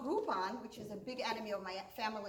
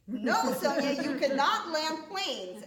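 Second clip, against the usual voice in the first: louder, higher mock fatherly no; emphatic refusal; 3 semitones higher, 6 dB louder, slower than usual. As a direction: put your foot down, slow at the end. Father flatly refuses in retold talk.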